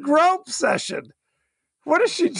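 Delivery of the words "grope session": slow, high "Grope session."; grope stressed. Retold or imitated. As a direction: drag out "Grope" with a knowing lilt. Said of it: "She said".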